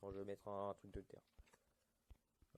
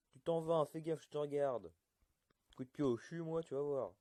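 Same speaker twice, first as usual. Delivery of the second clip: higher, louder mock threat at the mobs; 5 semitones higher, 7 dB louder than usual. Player warning the mobs off his house, mock angry shouting. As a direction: bark a playful threat at a nosy creature.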